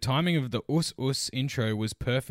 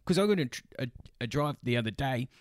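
imitating driver; 2 semitones higher than usual. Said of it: "he's like".

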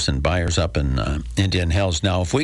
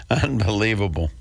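chuckling through Unbelievable; amused, laughing Unbelievable; laughing disbelief. Real, not acted. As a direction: laugh it off in mock amazement. Laughs at his own joke.

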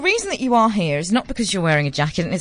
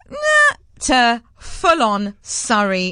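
full-on Surrey accent; much slower than usual. Shown as a demonstration. Host mocking own accent shift, exaggerated Surrey British. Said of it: "my British accent has gone".

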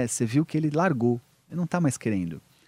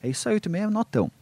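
higher-pitched parent brushing off a worry; dismissive reassurance; 4 semitones higher than usual. Acted. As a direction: make light of it, higher than usual. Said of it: "Negar a angústia".

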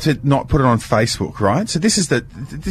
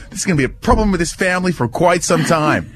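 mock Doctor Phil pronouncement; a light talk-show counsellor gravity; 5 semitones higher than usual. Host wraps up like a TV psychologist, mock grave. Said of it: "I sound like Doctor Phil".

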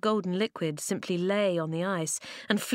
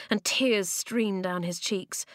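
ordinary delivery, nothing marked

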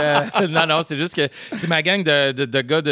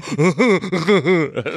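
laughing at the dentist; 3 semitones higher than usual. Retold or imitated. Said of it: "mon imitation de quelqu'un chez le dentiste qui rit la bouche ouverte".

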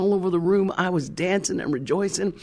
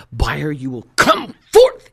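booming retold prayer command; 3 semitones lower, 7 dB louder, slower than usual. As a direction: call it out like raising the dead. Acted commanding prayer for a buyer.

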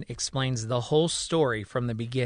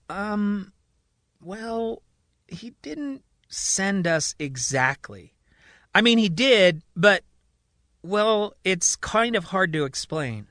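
nervous; 6 semitones higher, slower than usual. A narrator's reading. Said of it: "Marion nervously responds".

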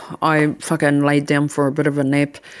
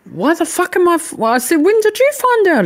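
outraged demand; 13 semitones higher, faster than usual. Retold or imitated. Confronting her cheating partner about the pregnancy: high, outraged. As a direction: demand it in rising disbelief.

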